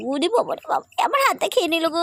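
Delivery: high, hammed-up cry of woe over a bitten hand; mock wail. Pet bites her hand, mock wail. (মজা করে হাহাকার, গলা উঁচু)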